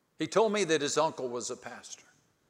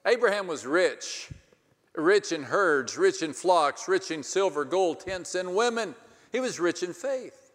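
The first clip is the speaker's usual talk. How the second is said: high, loud preacher build; preaching; 5 semitones higher, 5 dB louder than usual. Acted. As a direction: ring out each rich, rising.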